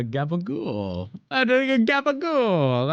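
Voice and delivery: a light New Jersey mobster voice; lazy mob drawl on Gabagool; Tony Soprano impression. Streamer doing a light Tony Soprano for chat. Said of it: "I'm a Tony Soprano".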